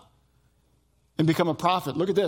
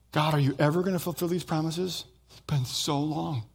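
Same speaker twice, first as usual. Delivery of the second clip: weary lament. Retold or imitated. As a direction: sigh it out as if tired of waiting. Voicing Israel's weary prayer.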